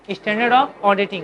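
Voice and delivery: full form said very slowly, word by word; slow dictation. Shown as a demonstration. Teacher answering the students' full-form question, very slow and deliberate. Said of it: "क्या होता है?".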